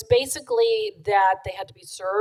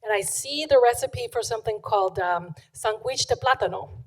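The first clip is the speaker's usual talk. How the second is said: put-on lightly done Puerto Rican accent. Restaurant owner telling how he found the recipe, imitated Puerto Rican accent. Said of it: "allowed to do his accent".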